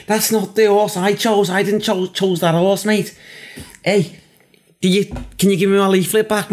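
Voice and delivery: high, indignant Scouser; Scouse accent. Pretend. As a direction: protest in a put-on Scouse voice. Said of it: "that's typical bloody Scouser".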